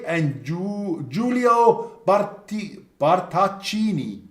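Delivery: slow, Italian-accented list of names; best Italian accent. Shown as a demonstration. Host reading Italy's reserves, drawn-out Italian accent. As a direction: draw out every name in a playful Italian accent. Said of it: "your best Italian accent".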